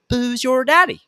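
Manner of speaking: hammed-up radio announcer tagline. Shown as a demonstration. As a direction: sell the show name big. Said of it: "make sure you say".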